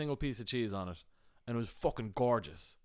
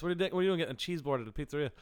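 fast, higher-pitched incredulous scolding; retold exasperation; 5 semitones higher, much faster than usual. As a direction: rattle it off like you could slap him. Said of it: "wanted to slap him in the face".

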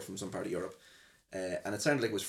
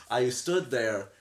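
laughing; 3 semitones higher, 6 dB louder than usual. Real, not acted. Laughing through the story.

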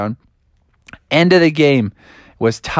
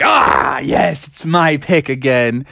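delighted Froggy; slower than usual. Acted. Froggy delighted at his turn.

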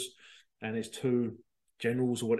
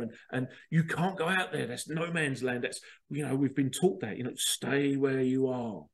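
scolding crabs. Pretend. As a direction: scold the crab for getting above himself. Other crabs scolding the climber.

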